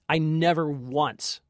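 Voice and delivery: ordinary delivery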